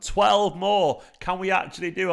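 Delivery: loud, high, rallying call; excited shout. Real, not acted. Streamer rallying viewers for a subscriber milestone, excited shout. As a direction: fire up the chat with it.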